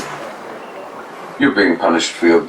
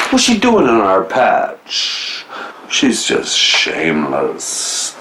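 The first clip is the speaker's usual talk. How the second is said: poem reading. Acted. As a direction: recite the poem with lightly voiced gossiping characters. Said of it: "Peter, please read us a poem".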